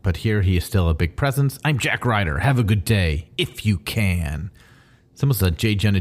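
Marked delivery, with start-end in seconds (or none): 1.6-4.5 hammed-up TV pundit sign-off; lightly voiced talk-show host, drawing out the last words; angry talk-show host. Co-host mimics an angry TV pundit, hammed-up host sign-off. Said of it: "the Fox News-ish, angry, right-wing".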